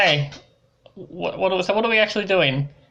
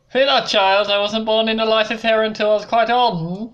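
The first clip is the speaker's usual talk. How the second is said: priest voice; 5 semitones higher than usual. Acted. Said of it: "There we go, I got his voice back".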